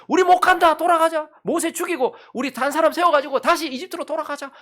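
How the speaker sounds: high, loud outcry of a mutinous crowd; mock rebellious protest. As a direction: cry out as rebels refusing to go on. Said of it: "계속해서 원망하고 불평하고".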